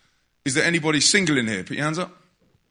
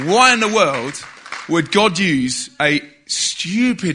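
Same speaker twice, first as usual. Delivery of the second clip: incredulous; 3 semitones higher, 3 dB louder, much slower than usual. Retold or imitated. Exasperated self-questioning.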